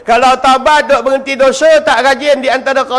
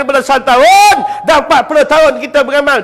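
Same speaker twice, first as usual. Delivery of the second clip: preaching shout. Acted. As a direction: drive the point home to the crowd. Preacher rising to climax. (laungan penceramah yang kuat)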